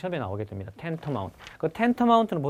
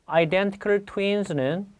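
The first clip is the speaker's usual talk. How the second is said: slow model phrase; 5 semitones higher, much slower than usual. Shown as a demonstration. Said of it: "identical 많이 들어보셨죠".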